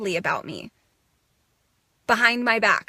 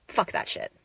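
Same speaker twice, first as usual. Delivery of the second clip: softer whisper of defiance; 8 dB quieter than usual. Real, not acted. Rejecting her old habits: whispered defiance. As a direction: breathe it out low and secret.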